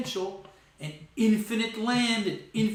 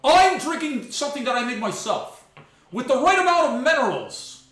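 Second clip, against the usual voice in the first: imitating Tate; 3 semitones higher, 4 dB louder than usual. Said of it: "I heard it today. It's like".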